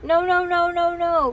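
high, loud string of refusals; toddler protest. A narrator's reading. Toddler reaching for Bean, high loud protest. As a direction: wail it like a toddler.

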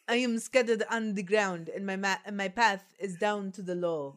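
put-on voice of enchanted water; hammed-up recital as the spilt water; talking feet water. Feet water explaining to the witches, hammed-up character voice. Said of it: "said the feet wa".

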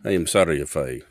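put-on careful Russian-accented apology. Customer apologising to crying shoeshine boy, Russian accent. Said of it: "my accent is a very proud Russian one".

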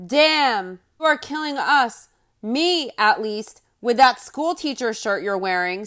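mock awkward, no passion; awkward flat compliment. Narrator mocking husband's awkward compliment to wife, no passion. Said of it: "said as awkwardly as possible".

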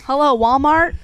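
calling out. Pretend. Calling out to Walmart.

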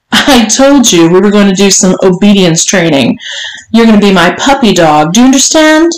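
lightly voiced strict madam, lifting at the question; commanding mistress. Mistress instructing her servant, mildly imperious. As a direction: lay down the rules as a demanding mistress. Voices the story's Missus Johnson.

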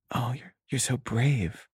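soft, slow, imitated admiration; admiring sympathy. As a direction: say it slowly, like a sympathetic schoolmate. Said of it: "complimenting me on how well".

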